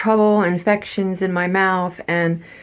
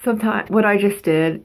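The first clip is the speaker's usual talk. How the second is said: ordinary talk, nothing marked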